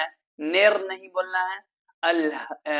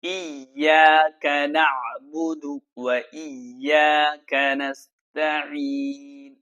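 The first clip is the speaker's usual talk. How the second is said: slow, measured tajweed recitation; slow melodic Quran chant; much slower than usual. Shown as a demonstration. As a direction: recite it slowly like a qari. Recites verse.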